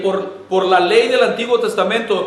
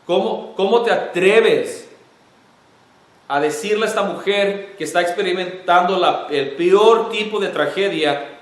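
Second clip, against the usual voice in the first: mock indignant crowd, slightly raised; indignant bystanders. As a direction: scold him as if he has no heart. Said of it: "si no lo dijeron o pensaron".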